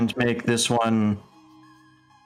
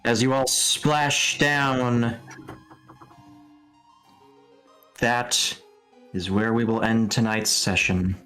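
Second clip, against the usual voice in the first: game master narration; 2 semitones lower, slower than usual. Acted.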